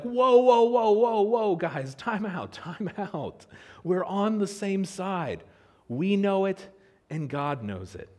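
high, loud, frantic whoa; calming brothers down in a panic; alarmed protest. Retold or imitated. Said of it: "They're like".

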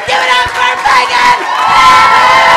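booming, drawn-out host intro; announcer shout. Real, not acted. Host hyping the crowd for Megan, booming shout. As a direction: hype the crowd for the next act.

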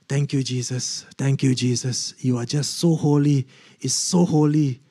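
acted prayer of awed gratitude; reverent thanks. Couple praying under the glory of God, reverent thanks. Retold hushed worship after falling.

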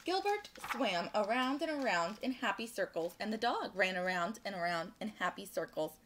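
animated storytime narration; picture-book read-aloud; children's story reading. A narrator's reading. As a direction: read it to little listeners with lilting emphasis.

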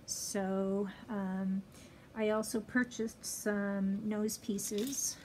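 muffled behind cloth mask; speaking with mouth covered; through a face mask. Real, not acted. Seen 1: Pink fabric mask covers nose and mouth throughout the labelled words.

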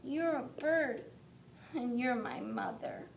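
high, bright listing; a chick proud to recognize her; happy baby bird. Acted. Baby bird tells mother he knows her, high and glad. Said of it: "said the baby bird".

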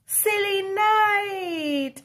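real laugh-shout. Real, not acted. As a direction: crack up at the twist. Story punchline, laughing.

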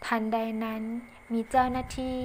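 ordinary delivery, nothing marked

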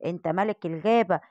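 steady your scared cub; proud lion father. Acted. Lion king bracing his son Simba for the shot.

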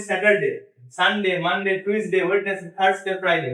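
day names with a plain Bangla 'de' ending in স্যাটারডে, সানডে, মানডে; Bangla-style English. Shown as a demonstration. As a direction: list স্যাটারডে to ফ্রাইডে in a Bangla accent, each ending in short 'de'. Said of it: "বাংলার মতো করে বলি". (দিনের নাম বাংলার মতো করে, শেষে সোজা 'ডে')

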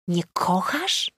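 powolne, niedowierzające pytanie; wolno, z niedowierzaniem, jakby nie słyszała dobrze; zdumione pytanie. A narrator's reading. Tina zdumiona wyznaniem. (przyjaciółka nie wierzy własnym uszom, powoli i z niedowierzaniem)

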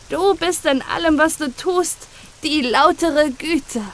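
put-on boy thanking God for the rain, overjoyed; joyful. A narrator's reading. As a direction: keep the joy bubbling through the prayer. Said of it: "rief er freudig".

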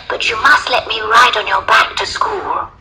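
put-on high little girl voice. A narrator's reading. Little girl bargaining with the lion, high child voice.

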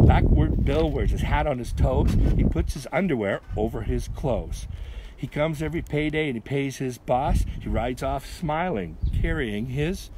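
measured, sing-song verse reading; poem recital. A narrator's reading. Reader telling kids of Backward Bill, rhythmic recital.

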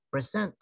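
"present" said as pre-SENT; stress on second syllable. Shown as a demonstration. Teacher shows the verb meaning to introduce, stress on SENT in "present". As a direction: hit the last syllable of "present". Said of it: "verb ito eh".

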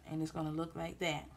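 talking around a wad of gum; words slightly mushed by chewing. Real, not acted. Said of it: "I got gum in my mouth".

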